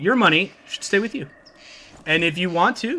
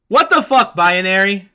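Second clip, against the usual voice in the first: high, loud what the fuck; shocked outburst; 3 semitones higher, 6 dB louder, slower than usual. Real, not acted. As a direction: react in disbelief. Outburst at pinned chat.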